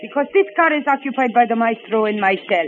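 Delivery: put-on proud woman in a heavy Eastern European accent; stiff, foreign-accented English.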